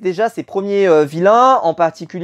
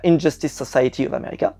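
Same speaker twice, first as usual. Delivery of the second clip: English accent; 3 semitones lower, 5 dB quieter than usual. Shown as a demonstration. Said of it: "vous avez vu mon accent d'anglais".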